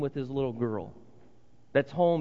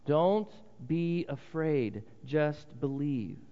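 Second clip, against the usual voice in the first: slow gentle reassurance; much slower than usual. Acted. Preacher repeats Jesus' words.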